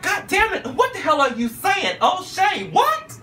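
high, baffled outburst; what are you even saying; exasperated. Retold or imitated. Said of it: "I was like".

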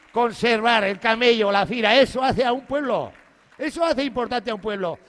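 loud rallying proclamation to the crowd; loud proclaiming. Real, not acted. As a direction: proclaim it to the whole square.

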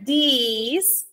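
"this" stretched slowly into these; lengthened vowel. Shown as a demonstration. Teacher explaining several markers to learners, long-vowelled "this". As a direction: draw out the ee in "this". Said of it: "que es más larguito".

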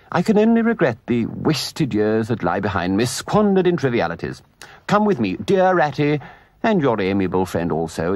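grand, emphatic showing-off; pompous Toad, grandly eager. Acted. Toad leading friends to his discovery, grandly eager.

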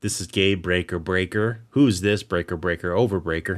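CB radio talk. Pretend. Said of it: "I don't think you have to say breaker that many times".

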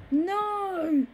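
sharp high shout of no. Acted. Granny refusing the boy, shouting. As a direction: slam the answer shut.

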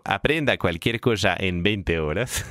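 slow, low self-help title read; mock title voice. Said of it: "por qué lo dices con esa voz". (voz fingida, lenta y grave)

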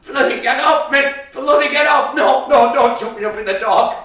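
high, loud frantic protest; panicked shouting. Acted. Boy yelling at his mother as she drags him upstairs. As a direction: fight back, yelling in panic.

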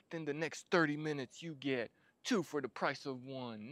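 quick upbeat sales pitch; infomercial pitch. Pretend. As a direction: sell it like a TV ad. Infomercial ad repeated in retelling.

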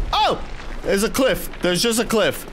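surprised. Real, not acted. Surprised by a cliff.

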